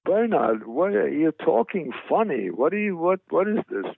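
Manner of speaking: lightly voiced fretful mother; mother's reproach. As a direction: imitate a mother baffled by her son. Acts his mother scolding him.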